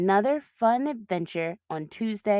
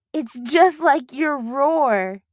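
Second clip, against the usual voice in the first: giggling; 6 semitones higher, 8 dB louder, much slower than usual. Acted. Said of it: "giggled Bee".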